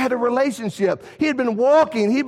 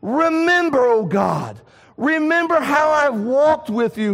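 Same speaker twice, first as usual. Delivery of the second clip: crying out to God; 5 semitones higher, slower than usual. Acted. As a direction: call out the prayer with full heart. Hezekiah's prayer, cried out.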